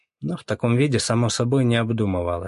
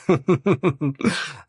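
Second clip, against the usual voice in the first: guffaw; 7 semitones higher than usual. Acted. Lyokha roaring with laughter at the memory. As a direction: burst into a big horse laugh. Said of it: "заржал Лёха".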